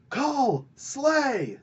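high ringing call; battle cry. Retold or imitated. Brule urges Kull to kill the assassin, battle cry. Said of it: "Brule calls out".

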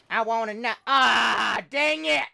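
loud, high shout of frustration; frustrated shout. Real, not acted. Gamer dying mid-sentence, shouting in frustration. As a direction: cut yourself off with a yell.

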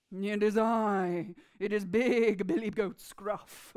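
slow, steady big goat; big goat facing the troll, slow and sure. Acted. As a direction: answer the troll calm and unafraid.

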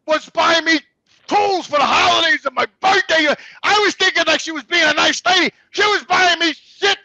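loud, high-pitched indignation; real angry rant. Real, not acted. Husband realising the gifts were for working on the house, real angry rant. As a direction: rant loudly at having been played. Ranting about being used for work.

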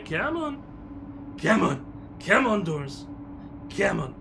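loud impatient calls, starting high and coming down. Real, not acted. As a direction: keep nagging the slow doors, loudly. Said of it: "getting a wee bit impatient here".

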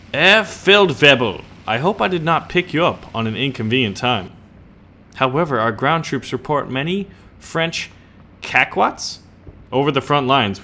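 mock German officer briefing; terrible German accent. Addressing Herr Feldwebel on troop reports, hammy German accent. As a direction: read it in a put-on German accent. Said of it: "terrible German accent".

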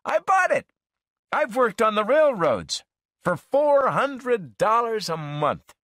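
a lightly played road-weary buddy; Dean, breezy. A narrator's reading. Dean voiced by narrator.

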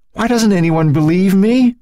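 high, anguished demand; desperate, distraught outcry; voice rising. A narrator's reading. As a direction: plead at the top of the pitch range. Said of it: "His voice rose".

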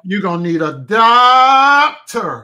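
loud, high, laughing shriek; laughing loudly. Real, not acted. Cohost repeats the doctor line, howling with laughter. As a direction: shout it out then howl with laughter.

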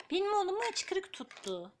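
cooing surprise at the hiccups. Real, not acted. Tells baby loudly about hiccups.

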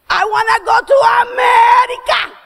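high loud whiny demand; child's pleading shout. Retold or imitated. Daughter tells father she wants America, high pleading shout. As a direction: blurt it out like a fed-up kid.

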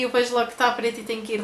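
talking with finger at lips; finger on teeth. Real, not acted. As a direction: lip pulled by finger. Seen 1: From 1.9s a fingertip presses lip against front teeth while talking.

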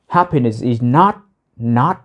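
"not" pushed and lifted at the end; stress on not. Shown as a demonstration. Teacher shows students the stressed negation "not". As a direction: hit "not" in "Happiness is not". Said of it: "tại vì nó đang nhấn mà happiness is not".

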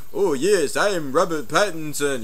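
mock English accent, slow and drawn out. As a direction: put on an exaggerated English accent. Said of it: "he's got this English accent".

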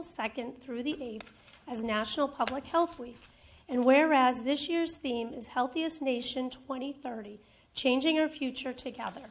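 formal proclamation reading; notary reading. Acted. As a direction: read it like an official decree. Mayor reads formal proclamation.

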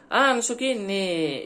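frase solta terminando num "ne" alongado; imitando o ne japonês. Retold or imitated. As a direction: imite um japonês fechando a frase com "ne". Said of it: "o ne no final". (imitação leve do "ne" japonês no fim da frase)

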